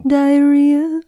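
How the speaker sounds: loud, high drawn-out ad voice; ad guy voice. Retold or imitated. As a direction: belt it like a commercial actor. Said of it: "the guy says".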